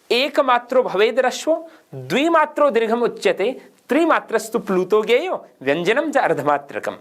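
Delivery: measured recital of a Sanskrit shloka; Sanskrit verse recitation. Acted. Teacher quotes a grammar shloka to students, recited. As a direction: recite the verse line by line, lightly intoned.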